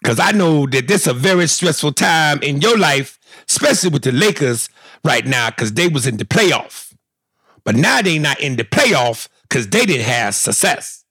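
mock-earnest Magic apology; Magic Johnson apology. Host apologizes as Magic Johnson. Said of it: "I would say".

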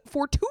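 Fortune said mockingly as "for-too-NAY"; accented final E. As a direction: throw out Fortune high and loud, ending in "nay". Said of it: "I don't see a accent at the".

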